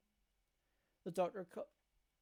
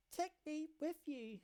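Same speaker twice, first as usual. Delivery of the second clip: slow tearful plea; 9 semitones higher, slower than usual. Acted. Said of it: "Her cries mingle with tears".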